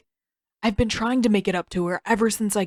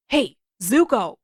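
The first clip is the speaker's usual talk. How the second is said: calling out; 5 dB louder than usual. Acted. Sokka calling into tent.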